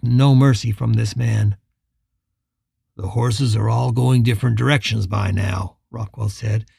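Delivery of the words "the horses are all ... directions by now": lower, calm steady voice; unhurried and in control; calm posse leader, lightly voiced. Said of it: "his voice calm and steady".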